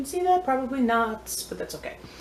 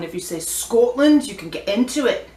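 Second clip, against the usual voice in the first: Scottish accent; 2 semitones higher, 4 dB louder than usual. Shown as a demonstration. Vlogger shows off an accent, put-on Scottish. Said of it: "I can do a Scottish one".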